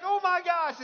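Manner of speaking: high, loud mock shock; freaking out. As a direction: act out a dad's horrified realization. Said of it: "he freaks out".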